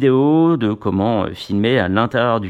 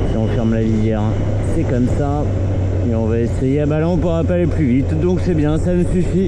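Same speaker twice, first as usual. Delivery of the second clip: inside a motorcycle helmet. Real, not acted. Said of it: "dans le casque".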